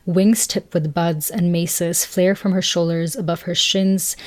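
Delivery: measured read-aloud from a book. Acted. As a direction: read the passage evenly, phrase by phrase.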